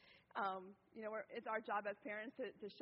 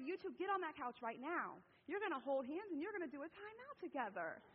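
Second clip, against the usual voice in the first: acted stern order, pitched up; fed-up parent; 5 semitones higher than usual. Mother sending two bickering kids to the couch, fed up. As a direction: lay down the law to squabbling kids. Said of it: "and I had it".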